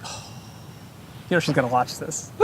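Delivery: slow hushed whisper. Real, not acted. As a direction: whisper it like a secret. Teasing aside about a singer watching.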